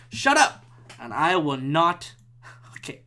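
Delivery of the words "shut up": high, loud heckling shout; imitated yell. Imitating someone on the street, high loud yell. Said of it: "who are yelling".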